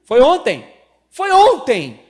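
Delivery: high, loud indignant cry; high, loud playful outrage at his wife; loud protest. Real, not acted. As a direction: protest loudly that it was yesterday.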